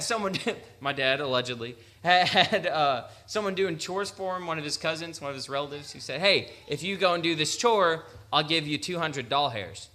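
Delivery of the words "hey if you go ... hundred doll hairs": retold relative with Kentucky accent; Eastern Kentucky accent. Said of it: "his Eastern Kentucky accent kinda kicked in".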